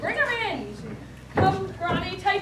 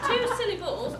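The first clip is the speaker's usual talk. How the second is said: chuckling at the word; amused prince laughing at a silly guess; 5 semitones higher than usual. Acted. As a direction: laugh through the question. Laughing at his mishearing.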